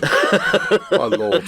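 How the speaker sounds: breathy whispered aside; hushed mock-shocked whisper. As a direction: whisper it behind a hand.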